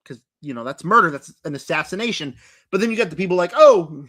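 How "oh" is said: real voice crack on a loud, strained oh; the voice breaks mid-word. Real, not acted. Mocking the other side, voice cracking on the oh. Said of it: "My voice just cracked bad".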